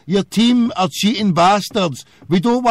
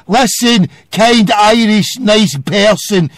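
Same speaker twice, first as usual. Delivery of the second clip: hammed-up polite caller; mock politeness; 4 dB louder than usual. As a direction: plead with sarcastic formality. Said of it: "you address me properly".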